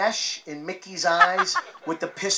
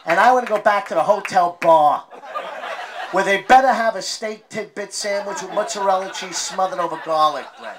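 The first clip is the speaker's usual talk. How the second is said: mock whiny dad; 3 semitones higher, 6 dB louder than usual. Dad's mock reply to daughter.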